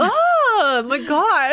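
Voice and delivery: slow, loud, exasperated oh my gosh; annoyed boyfriend. Retold or imitated. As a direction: drag it out like a fed-up partner. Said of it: "he'll be like".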